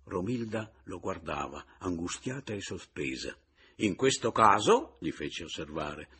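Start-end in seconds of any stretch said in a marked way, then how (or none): 3.8-6.1 ironic retort. Acted.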